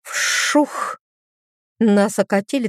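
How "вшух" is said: breathy unvoiced whoosh of water; whispered whoosh; whooshing splash. A narrator's reading. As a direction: puff out the splash sound. Water splashed over them.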